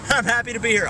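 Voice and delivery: high laughing echo; laughing repeat. Pretend. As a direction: say it again giggling.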